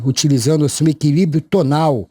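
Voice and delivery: ordinary talk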